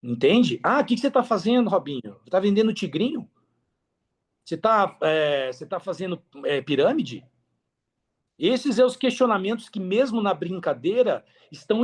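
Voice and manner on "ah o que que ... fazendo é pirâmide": imitando cobrança de conhecido, mais agudo; imitação leve de amigo desconfiado; questionamento debochado. Retold or imitated. (cobrança em tom de deboche)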